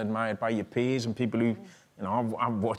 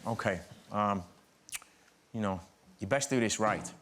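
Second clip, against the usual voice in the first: lower, softer voice, a hint of a tough older man; imitating Joe Pesci; 5 semitones lower, 4 dB quieter than usual. Actor retells Joe Pesci inviting him to sit, lower and softer. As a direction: drop the voice low and quiet like a mob boss.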